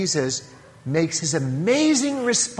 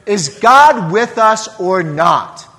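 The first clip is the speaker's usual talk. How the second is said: louder, slow, exasperated question; mock grumble at God; grumbling complaint; 4 semitones higher, 8 dB louder than usual. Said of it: "and they grumble".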